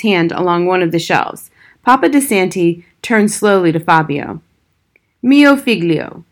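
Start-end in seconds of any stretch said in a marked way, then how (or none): 5.2-6.2 tired, patient. A narrator's reading. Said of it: "he began in a tired, patient voice".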